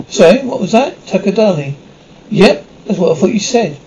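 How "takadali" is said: hammed-up Punjabi accent; exaggerated Punjabi accent. Showing off an impression on request, exaggerated Punjabi accent. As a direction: put on an overdone Punjabi accent. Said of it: "what about exaggerated Punjabi accent".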